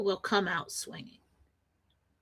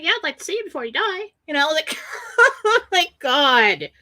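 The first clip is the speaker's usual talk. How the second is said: laugh-crying; 7 semitones higher, 5 dB louder than usual. Real, not acted. Laughing crying at mom's dying joke.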